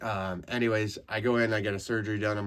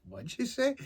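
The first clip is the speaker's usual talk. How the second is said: sharply higher, confronting; challenging disbelief. Retold or imitated. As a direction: dare him to repeat it. Roommate just swore at him.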